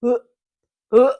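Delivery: retching heaves, imitated; mock dry heave noises; gagging. Daughter reliving the gutted dog, imitating gagging.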